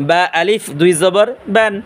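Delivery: বান with b closed on the inner, wet lips; measured recitation, clear lip b in বান; বা from moist lips. Shown as a demonstration. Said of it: "ঠোঁটের বিজা অংশ থেকে".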